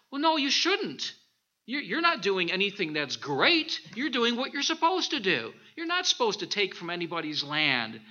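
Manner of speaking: God gently scolding David; imagined God correcting. Retold or imitated. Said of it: "God was probably going".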